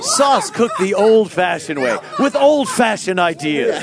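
slow commercial voiceover; ad announcer. Pretend. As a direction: sell it like a sauce ad. Parody Prego commercial.

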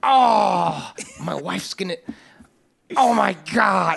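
mock wail building to a slow shout on oh my God; hammed-up panic. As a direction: fake distress, drawn out. Mock bathroom encounter on phone.

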